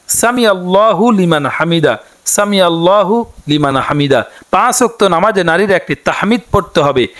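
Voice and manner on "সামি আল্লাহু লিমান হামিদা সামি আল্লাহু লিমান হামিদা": careful recitation. Shown as a demonstration. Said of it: "বাংলাতে উচ্চারণটি একইভাবে".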